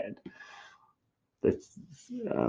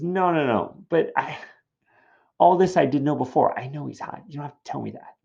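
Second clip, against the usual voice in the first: higher, protesting; impatient Juliet; 6 semitones higher than usual. Acted. Juliet telling nurse she already knows, impatient. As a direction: brush the information aside. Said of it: "And Juliet's response is".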